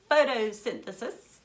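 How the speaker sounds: gasp, then announce it brightly; spring the answer like a surprise; a gasping, delighted reveal; excited reveal. Real, not acted.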